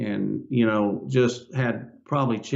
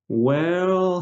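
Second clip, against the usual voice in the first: excited drawn-out well; 6 semitones higher than usual. Retold or imitated. Doctor spotting the mole, imitated with a high excited well. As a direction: let the doctor light up at what he sees.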